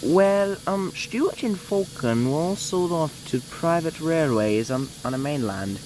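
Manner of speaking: audition-style demo of a character accent; Jim accent. Shown as a demonstration. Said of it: "So here's my accent of him".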